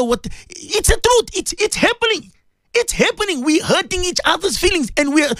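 high, pleading sermon voice; impassioned preaching. Real, not acted. Host scolding the Muslim listeners, high and pleading. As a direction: press the point home with high fervour.

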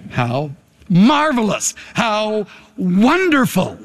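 impassioned preacher cadence; preacher driving the point home to the church; sermon. Acted. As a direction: preach it to the congregation, building.

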